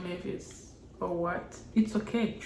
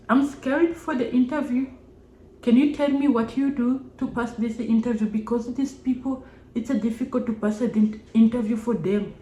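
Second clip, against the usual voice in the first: Indian accent imitation; 3 semitones higher than usual. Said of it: "And then she said that".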